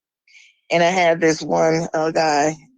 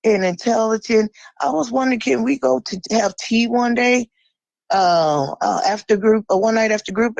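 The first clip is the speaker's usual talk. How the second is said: mock flirtatious man; 4 semitones higher than usual. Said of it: "he's like".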